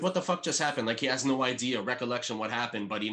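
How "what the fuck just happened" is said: higher, baffled question; mock bewilderment; a touch of stunned confusion; confused Jimmy. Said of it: "he's like".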